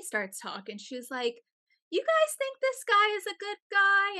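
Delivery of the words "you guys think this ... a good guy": high-pitched put-on girlfriend voice; imitated girlfriend. Girlfriend asks the strangers about her boyfriend, high imitated voice. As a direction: imitate a tipsy woman asking, pitched well up. Voicing the drunk girlfriend asking.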